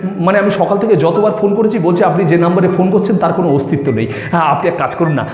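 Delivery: halting, lightly acted plea to elders; earnest suitor pleading. Young man asks her parents for Sumi, earnest and pleading. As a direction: plead your case politely, stumbling over words.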